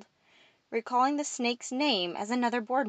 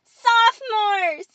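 slow, high, sustained yell; shouted roll call; 14 semitones higher, 10 dB louder, much slower than usual. A narrator's reading. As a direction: call the class out loudly. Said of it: "Emily jumped up gleefully".

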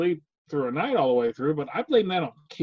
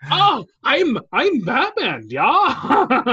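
high, loud joke superhero impression; Batman; 8 semitones higher, 4 dB louder, much slower than usual. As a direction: badly fake a hero in a pitched-up voice. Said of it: "here's my Batman".

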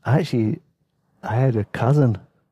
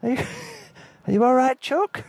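very high doting voice, fast at the end; fussing Susan. Retold or imitated. Susan fussing over the guest's dinner in a high doting voice. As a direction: coo over him like an overanxious host. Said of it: "Susan's like".

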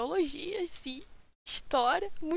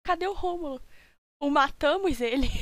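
louder gloating villain line; mustache twirling villain; 2 semitones higher, 4 dB louder than usual. Acted. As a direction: gloat like a cartoon bad guy. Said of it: "eu imaginei o culpado de Washington falando". (vilão caricato se gabando)

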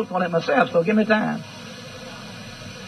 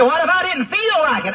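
mock doubter; 5 semitones higher than usual. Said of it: "You say".

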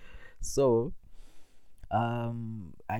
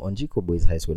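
loud announcement; 10 dB louder than usual. Acted. Announcing the school's name.

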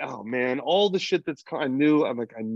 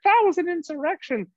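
pitched way up in mock outrage; squeaky parody of hysterical critics; high mocking parody voice; mocking lunatics. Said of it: "all the lunatics were like".

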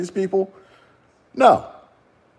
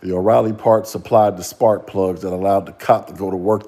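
mock conspiracy preacher; 6 semitones lower than usual. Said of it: "what does Progressive Knowledge say".

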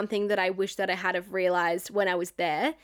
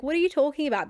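higher, baffled question; mum's retold disbelief; 7 semitones higher, faster than usual. Voicing mum hearing of the breakup, baffled. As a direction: quote a mother taken aback. Voices mum's surprised reaction.

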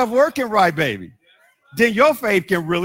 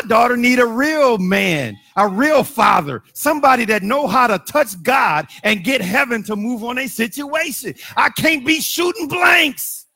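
full-force preaching. Real, not acted. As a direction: drive it home to the church.

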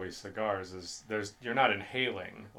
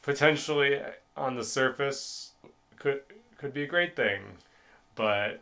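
strained voice; 4 semitones higher, 4 dB louder than usual. Real, not acted. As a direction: force it out with strain. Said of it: "The strain in your voice when you said that".

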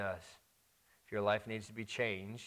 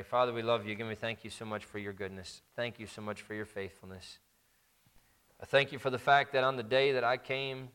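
earnest prayer. Acted. Closing prayer after sermon.

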